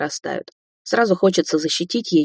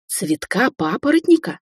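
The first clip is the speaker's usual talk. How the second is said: squeal; 3 semitones higher than usual. Acted. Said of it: "взвизгнул Андрей".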